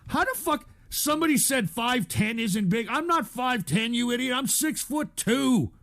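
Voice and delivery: high, offended pitch throughout; indignant rant. Real, not acted. Streamer angrily correcting a commenter about his height. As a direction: snap back indignantly.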